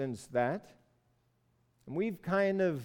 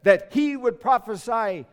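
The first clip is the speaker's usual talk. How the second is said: loud, raised-pitch accusation; indignant complaint; 6 semitones higher, 8 dB louder than usual. Acted. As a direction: press the grievance loudly. King's complaint resumes after aside.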